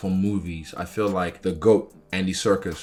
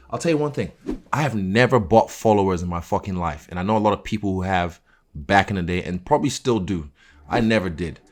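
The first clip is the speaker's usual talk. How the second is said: emphatic; 6 dB louder than usual. Real, not acted. Insists he never bought followers.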